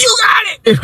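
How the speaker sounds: high mock jump-scare shriek; sudden scare line. Cousin breaking off the wail to startle kids, high shriek. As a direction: cut in abruptly with a high yell. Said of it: "So he'll be like".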